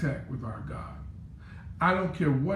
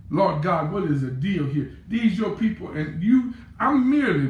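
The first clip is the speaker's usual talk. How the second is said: exasperated plea; 3 dB louder than usual. Acted. Frustrated pastor praying about complaining people, louder. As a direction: vent to God, rising.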